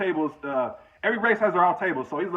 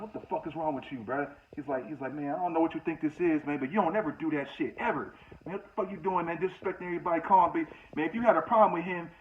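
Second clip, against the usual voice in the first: hushed scolding; 6 dB quieter than usual. Retold or imitated. OG scolding the cellmate at the table, hushed anger. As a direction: tear into him under your breath.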